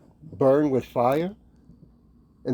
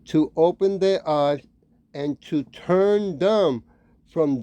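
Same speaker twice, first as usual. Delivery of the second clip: slow, deliberate Bible reading; scripture reading; slower than usual. Acted. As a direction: read the verse slowly, phrase by phrase. Reads scripture aloud.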